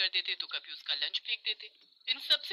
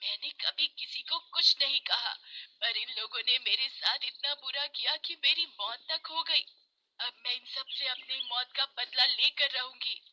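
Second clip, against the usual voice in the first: lightly voiced witch, higher-pitched vow; vengeful witch; 5 semitones higher than usual. Dead Kosi vows revenge on her tormentors, lightly witchy. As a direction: swear revenge as a wronged spirit. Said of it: "Kosi एक चुड़ैल बन जाती है और बोलती है".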